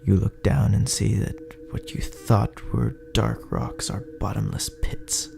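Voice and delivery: plain reading voice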